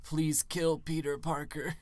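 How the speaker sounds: slow, hammy villain prayer. Retold or imitated. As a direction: drag it out like a sinister plea. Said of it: "He was like".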